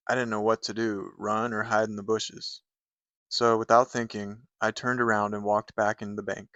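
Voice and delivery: plain narrative poem read aloud. Acted. Reviewer reads a bank hold-up poem, storytelling read. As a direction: tell the poem as a story, line by line.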